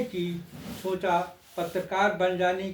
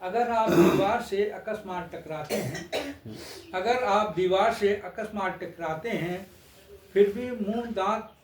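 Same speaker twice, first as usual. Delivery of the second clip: measured stage-poet delivery; lilting satirical verse recital; poem recitation. Acted. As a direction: recite verse line by line with pauses.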